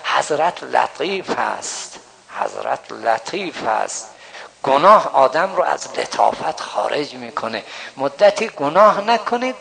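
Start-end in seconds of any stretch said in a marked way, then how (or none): 0.0-4.1 put-on slow, soft Persian with an Arabic accent. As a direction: quote the master gently in his Arabic accent. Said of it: "با اون لهجهٔ عربیشون فرمودن". (با لهجهٔ عربی، آرام و شمرده)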